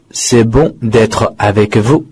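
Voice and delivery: "C'est bon d'être avec vous" repeated slowly, each word separate; slow it down so students can follow; slow model reading. Shown as a demonstration. Teacher repeating the answer for students, slowly. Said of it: "答案非常的简单".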